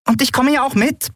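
hohe, piepsige Stimme eines kleinen Wesens; piepsend. A narrator's reading. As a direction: ganz hoch piepsen, eifrig. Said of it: "piepste Nelen". (hoch und piepsig gesprochen)

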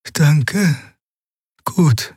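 a touch of curt reserve. A narrator's reading. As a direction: cut the answer off, cool and brief. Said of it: "antwortete die Heilerin knapp".

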